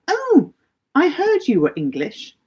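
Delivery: high-pitched mock exclamation; imitated finger-pointing onlooker. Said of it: "point the finger and say".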